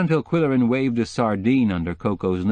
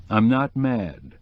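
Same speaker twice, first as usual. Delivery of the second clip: softened voice; slower than usual. Acted. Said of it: "letting his voice soften a little".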